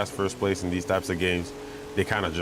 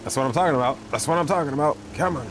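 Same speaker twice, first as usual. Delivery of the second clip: excited cheer; 8 semitones higher, faster than usual. Real, not acted. Cheering a good race move.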